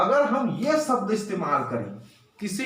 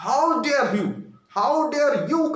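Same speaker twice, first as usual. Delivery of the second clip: higher, rising angry rebuke; 4 semitones higher, slower than usual. Shown as a demonstration. Teacher scolding a junior, rising anger. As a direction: scold a younger person who erred. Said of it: "गुस्सा में उसको कहेंगे".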